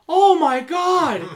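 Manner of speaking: put-on high, loud, drawn-out cry of an old woman; startled old lady. Old lady in a care home seeing a scary mask, shocked high cry. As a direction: play a shocked old lady, stretched out slowly. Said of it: "This one old lady saw it and goes".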